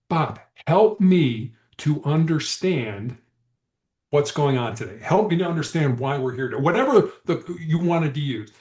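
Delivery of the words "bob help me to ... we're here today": patient calm invitation; calm negotiator. Shown as a demonstration. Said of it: "negotiator demo".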